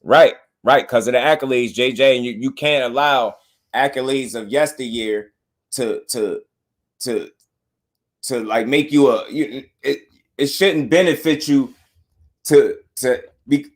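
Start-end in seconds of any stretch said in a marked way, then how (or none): 5.7-13.7 halting, stuck on the words; tongue-tied. Real, not acted. Trying to explain the accolades point, tongue-tied. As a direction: stumble and stall searching for the word. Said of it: "man, I can't even get it out".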